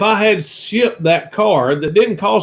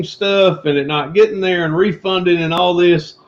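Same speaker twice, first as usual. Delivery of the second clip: hams up a sermon for his co-host; mock preacher; 2 semitones higher than usual. Answering the preacher jab, he preaches on about hard times. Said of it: "Such a preacher thing to say".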